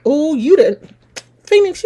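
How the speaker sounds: normal talking voice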